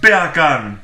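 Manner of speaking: loud mock Jamaican accent. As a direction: belt it in a put-on Jamaican accent. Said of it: "beer can in a Jamaican accent".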